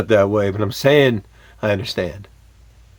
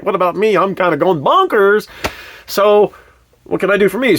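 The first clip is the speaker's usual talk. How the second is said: mock frazzled wife; 9 semitones higher than usual. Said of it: "she's like".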